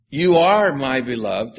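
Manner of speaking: weight on "You", rising through "are"; stress on you. Shown as a demonstration. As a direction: hit "You" in "You are my beloved". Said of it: "Again, the emphasis is on "you".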